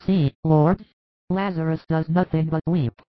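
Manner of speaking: compassionate. Acted. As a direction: speak with compassion for a weeping brother. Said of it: "says Martha compassionately".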